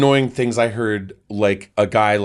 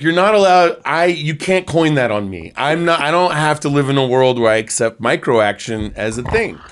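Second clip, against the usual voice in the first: indignant outburst; 3 semitones higher, 4 dB louder than usual. Retold or imitated. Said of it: "I was like".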